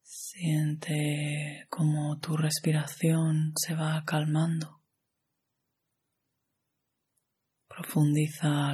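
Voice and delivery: calm, even meditation guide with long pauses; measured yoga nidra instruction, phrase by phrase; guided meditation. Acted.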